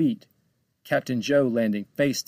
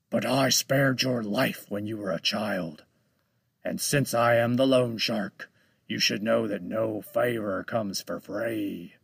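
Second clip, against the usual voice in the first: menacing shark voice. Acted.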